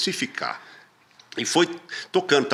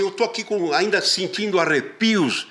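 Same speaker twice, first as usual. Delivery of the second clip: offended actor. Retold or imitated. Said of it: "ele falou assim".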